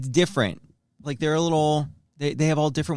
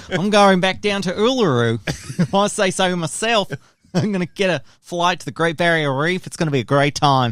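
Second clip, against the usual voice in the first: a bouncy Aussie tourist voice; Australian accent; 2 semitones higher, 3 dB louder than usual. Pretend. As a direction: lay on the Australian twang. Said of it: "you're Australian?".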